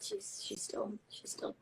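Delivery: hushed whisper so as not to wake her; soft unvoiced aside. Real, not acted. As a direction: whisper it, she's still tired. Whispering about a sleepy one.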